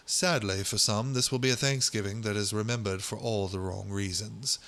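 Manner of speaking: put-on British accent, measured delivery. Host voicing Queensland virology professor from the article, British accent. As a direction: quote the professor in mock British. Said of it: "he's just gonna be British".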